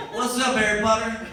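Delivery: put-on high, loud Hispanic-accented hail. Neighborhood guys all greeting him, Hispanic accent. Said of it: "I apologize for this accent".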